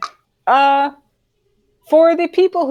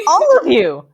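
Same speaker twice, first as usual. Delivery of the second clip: higher, louder shout to a group; calling out; 7 semitones higher, 6 dB louder than usual. Acted. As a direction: call the whole group out loudly.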